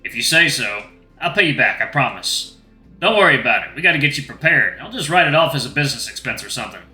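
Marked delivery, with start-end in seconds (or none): 3.0-6.8 slight Southern merchant twang; lightly put-on Western-Southern voice; easygoing trader with a hint of Southern accent. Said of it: "maybe Southern accent for him".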